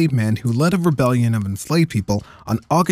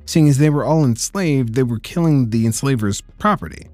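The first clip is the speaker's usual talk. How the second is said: sarcastic; 3 semitones higher than usual. Acted. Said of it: "Heavy air quotes here".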